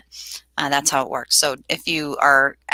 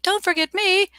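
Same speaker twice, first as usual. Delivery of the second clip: retold yell. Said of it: "I heard them yelling".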